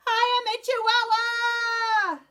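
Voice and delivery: put-on sung high and slow in a Spanish accent. A narrator's reading. Kitten proudly declares himself a Chihuahua, sung in a Spanish accent. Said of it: "using his very best Spanish accent".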